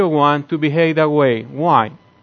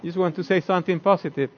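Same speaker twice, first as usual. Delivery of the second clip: sincere protest; 4 semitones higher, 7 dB quieter than usual. Retold or imitated. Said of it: "she think I'm being sarcastic".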